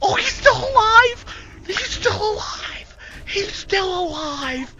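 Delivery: very high squealing cries of disbelief; frantic excitement. Real, not acted. Streamer to his team as a teammate survives: high frantic shrieks. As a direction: shriek it, hardly believing he lives.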